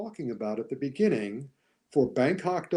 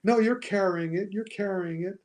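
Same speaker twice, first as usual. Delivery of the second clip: mock reassurance; 5 semitones higher than usual. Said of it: "you give her the benefit".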